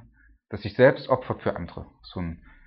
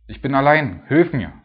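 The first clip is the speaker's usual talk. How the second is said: pleading cry; 4 semitones higher, 7 dB louder than usual. Acted. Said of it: "und es schreit und es ruft".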